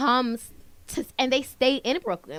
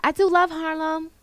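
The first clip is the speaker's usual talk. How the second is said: teasing mimic, leaning on do; mocking Brooklyn girl; 7 semitones higher than usual. Cohost mocks a Brooklyn girl's claim in teasing imitation. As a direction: parrot her line back with a playful sneer. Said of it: "every Brooklyn girl will say that".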